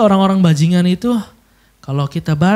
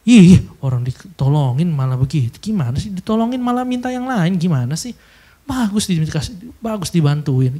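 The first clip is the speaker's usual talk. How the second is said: annoyed complaint. Retold or imitated. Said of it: "pasti kesel banget".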